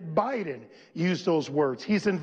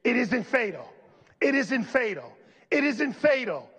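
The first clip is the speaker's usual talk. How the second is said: each "It isn't fatal" rising higher; call and response; 4 semitones higher than usual. Shown as a demonstration. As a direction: lead the congregation, building. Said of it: "say with me".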